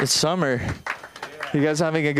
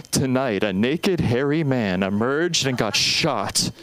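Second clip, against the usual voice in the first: true crime narrator; slower than usual. Retold or imitated. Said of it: "It'd be on Dateline".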